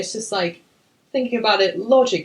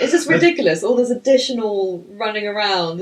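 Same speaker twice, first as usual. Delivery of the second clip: getting angry; 3 semitones higher, 5 dB louder than usual. Real, not acted. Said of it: "I'm just getting angry".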